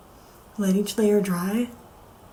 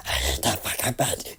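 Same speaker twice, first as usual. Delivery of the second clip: much lower, softer mutter; 7 dB quieter than usual. Retold or imitated. Fan muttering about a hated character, low mutter. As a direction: mutter it under your breath. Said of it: "I go".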